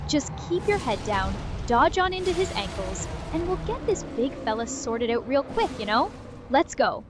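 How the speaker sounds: put-on folksy Wisconsin accent with sing-song lilt. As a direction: play it as a chipper Wisconsin local. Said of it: "That's your new accent".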